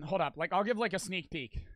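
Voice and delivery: breathless, winded talk; words pushed out between breaths. Real, not acted. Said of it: "Dude, I'm so out of breath".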